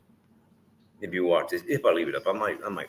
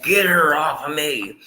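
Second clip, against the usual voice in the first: voicing the dog; 8 semitones higher, 8 dB louder than usual. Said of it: "Bitsy's like".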